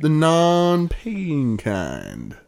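lightly voiced wistful old cowboy; drawling cowboy musing at sunset. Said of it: "wistful cowboy thing".

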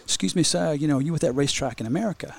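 lightly imitated Kenyan accent; polite stranger's question, lightly Kenyan-accented. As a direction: retell it with a hint of a Kenyan accent. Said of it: "in this beautiful Kenyan accent and says".

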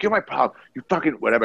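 high mock angry rant; coked-up accusation. Coked-up bro yelling at the bouncer, mock anger. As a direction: spit it at the big bouncer. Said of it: "So he's like".

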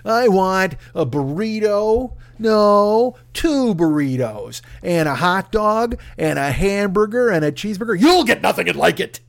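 put-on slow whiny spoiled-kid demands; lightly voiced whiny brat; Spaulding impression. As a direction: play the bratty rich kid. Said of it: "This dude was Spaulding from Caddyshack".

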